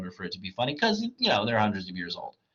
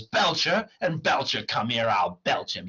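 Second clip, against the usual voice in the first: comic bravado; 4 semitones higher, 4 dB louder, slower than usual. Acted. Clown defies the devils.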